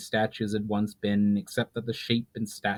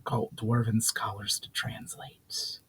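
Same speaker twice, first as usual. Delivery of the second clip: a spirit breathing the ancient greeting; ghostly whisper; 6 dB quieter than usual. Acted. Spirit greeting Valinar in old tongue, ghostly whisper.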